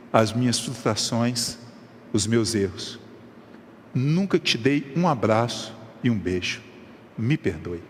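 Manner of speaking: low, soft, tearful father begging forgiveness; a hint of a father choked with tears asking his son's pardon; tearful plea. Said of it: "o pai dele estava em lágrimas".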